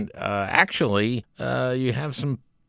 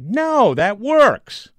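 mock president voice; 13 semitones higher, 8 dB louder, much slower than usual. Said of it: "and saying".

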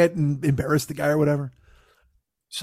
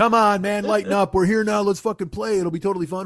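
raised, insistent buddy imitation; acted coaxing; 5 semitones higher than usual. The ace urging a reluctant player on, coaxing. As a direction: cajole him, pitch lifted then easing down.

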